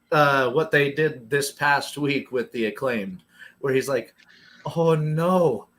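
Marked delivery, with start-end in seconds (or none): 4.8-5.7 slow, drawn-out mock whine; hammed-up dismay, dragging out the words; mock tearful. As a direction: imitate a wrestler starting to cry over a mistake. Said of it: "he starts crying".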